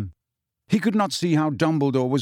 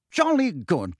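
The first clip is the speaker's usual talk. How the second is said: hearty; 6 semitones higher than usual. Acted. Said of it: "said Fudge heartily".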